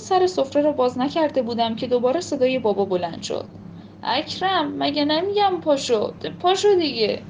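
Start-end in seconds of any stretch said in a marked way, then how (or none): 4.0-7.2 higher, insistent father calling out; impatient call. Acted. Impatient father calling his daughter to get up, higher and insistent. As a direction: call her name again, now losing patience.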